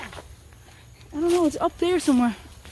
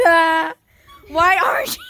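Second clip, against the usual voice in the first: shouted laugh; 2 semitones higher than usual. Real, not acted. Laughing while jumping.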